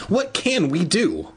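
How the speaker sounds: high, mildly fearful question; trembling voice. A narrator's reading. Boy asking his friend for help, lightly trembling voice. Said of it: "replied in a trembling voice".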